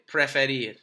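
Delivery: preferir said again as a clear model; model word to repeat. Shown as a demonstration. Teacher to students: models preferir for repetition. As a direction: offer preferir for echoing. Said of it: "So repite".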